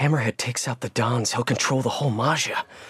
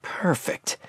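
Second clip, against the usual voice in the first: hushed whisper so nobody hears; 5 semitones higher, 4 dB quieter than usual. Real, not acted. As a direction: breathe the word out, unvoiced. Eavesdropping quietly in the bar.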